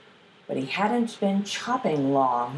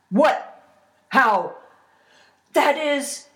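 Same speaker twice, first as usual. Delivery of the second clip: loud, high, halting disbelief; astonished; 6 semitones higher, 5 dB louder, slower than usual. Acted. Troll watches the lad cut himself open, astonished. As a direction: blurt it out in stunned bursts.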